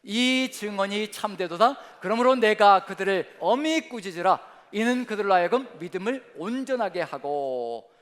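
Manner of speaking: loud, very slow unison reading; reading scripture aloud together. Real, not acted. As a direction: lead the verse out loud with the church. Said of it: "같이 시작".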